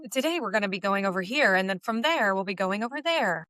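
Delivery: lilting news inflection, ups and downs. Shown as a demonstration. Guest demonstrates on request, news voice with inflections. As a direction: do a news presenter's sing-song read. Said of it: "I can do that".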